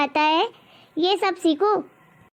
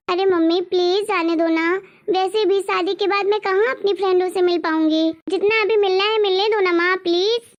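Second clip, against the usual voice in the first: pleading daughter. Acted. Daughter begs to go out.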